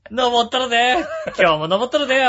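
high, loud comic Osaka routine; brash Kansai comedian shout; Yassan impression. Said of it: "やっさんじゃないか".

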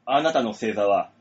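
dramatic fortune teller. Acted. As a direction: shout the reveal like a stage psychic. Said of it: "何この寸劇".

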